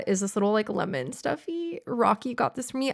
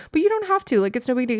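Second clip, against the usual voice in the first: flustered delight; 4 semitones higher, faster than usual. Retold or imitated. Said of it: "I'd be like".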